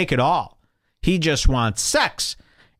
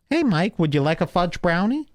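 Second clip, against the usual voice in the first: high-pitched eager host voice; mock hospitable host, pitched up; 6 semitones higher than usual. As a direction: offer it in a put-on, higher voice. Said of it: "Have you ever been to the host's studio?".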